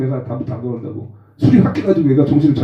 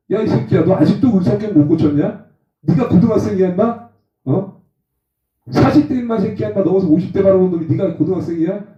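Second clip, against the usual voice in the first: preacher chewing out a drunk old friend, mock fierce; scolding rant; 2 semitones higher than usual. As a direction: tear into him like a hoodlum. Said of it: "막 뭐라 그랬더니".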